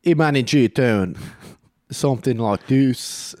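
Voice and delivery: put-on slow, tentative South African accent. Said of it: "South African is like".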